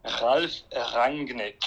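"Ralf Rangnick" very slowly, with German R's; correct German pronunciation. Shown as a demonstration. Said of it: "tell the studio the correct".

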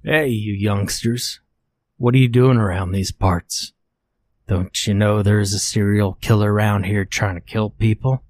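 lightly voiced thick Canadian accent; a hint of a friendly Canadian man. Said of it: "in his thick Canadian accent".

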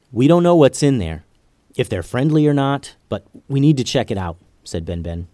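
a lightly voiced leader giving quick orders; commanding ninja leader. Ben Ben gives orders.

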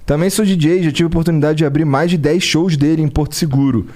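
reading a message. Acted. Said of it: "o Pedro Matos D J mandou aqui".

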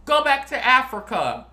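high, loud, slow mock of the racist's yell; imitating racist cyclist. Retelling the cyclist's insult, loud mock yell. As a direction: sneer it like the man on the bike. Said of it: "He gonna say".

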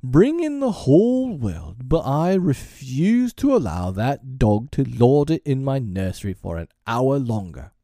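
loud, high, drawn-out defiance, easing down by the end; blustering, slow, emphatic tirade; reckless. A narrator's reading. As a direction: declaim it slowly as an outraged master. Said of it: "he answered recklessly".

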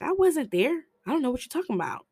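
high, fast nervous denial. Retold or imitated. Brother denying to Jane's brother, high and fast. Brother denies, acted quote.

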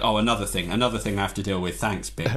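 low, flat, fast resigned sigh of a voice; dead-inside carer sighing at Bing; weary Flop. Retold or imitated. Guest imitating Flop the weary carer, low and resigned. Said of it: "he's just like".

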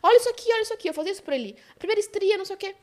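high-pitched imitation of anxious mothers; mock pleading. Mothers show husbands their changed bodies, mock pleading.

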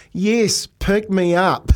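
high, slow, drawn-out excited guess. Retold or imitated. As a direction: stretch it out like the answer finally landed. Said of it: "and they're going".

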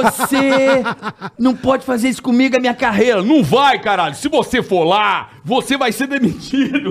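high, heated scolding in imitation; retold angry rant. Radio boss warns colleague about his career, mock angry rant. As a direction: act out an indignant boss laying down the law. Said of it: "O Emílio mantendo uma puta treta".

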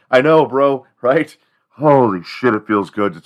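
loud relieved outburst; mock relief. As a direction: let it out, free at last. Colonists relieved to drop the accent.

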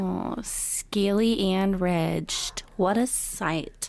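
drawn-out amused relish; slow savoring. Real, not acted. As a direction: savor each word slowly. Savoring the scaly description.

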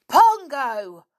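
high, loud scold. A narrator's reading. Nobby scolding the chimp Pongo, loud high scold. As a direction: tell off a naughty chimp. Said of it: "scolded Nobby".

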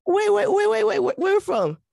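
high, loud, eager cut-in; high-pitched excited wait wait; excited interruption. Real, not acted. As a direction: jump in, thrilled to hear it. Excited interruption on hearing West Indian.

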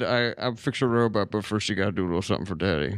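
low, fast leering aside; creepy come-on. Retold or imitated. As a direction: leer it out quickly. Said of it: "where I said".

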